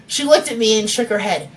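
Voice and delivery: reading a novel aloud; story narration. A narrator's reading. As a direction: narrate the chapter steadily. Author reading her chapter aloud.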